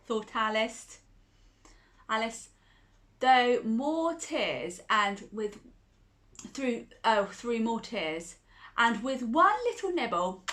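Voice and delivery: gentle storybook telling; reading to a child. Acted. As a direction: read it like a bedtime story.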